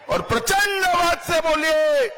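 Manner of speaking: high, rousing call; roaring rallying speech. Real, not acted. Rallying crowd.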